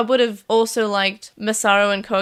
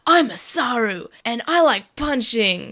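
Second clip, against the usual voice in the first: Masaru; slower than usual. Retold or imitated. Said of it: "Then we have Masaru just like".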